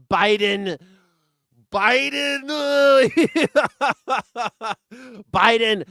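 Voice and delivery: high, loud mocking cry of Biden; mocking shout. Mocking the blame-Biden crowd, loud and high. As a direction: yell the name like a heckler.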